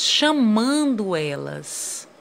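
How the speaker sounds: CHAMANDO drawn out like a call; slow calling emphasis on "chamando". Shown as a demonstration. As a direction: stretch the MAN of "chamando", then drop on "elas". Tells pupils to call words out.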